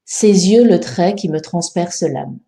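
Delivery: slow verse, sounding the E in "me" and "transperce"; E pronounced before consonants. Shown as a demonstration. Teacher scanning the fourth line, E of "transperce" clearly sounded. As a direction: say "transperce l'âme" as trans-per-se-l'âme. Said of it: "Il faut bien prononcer le E".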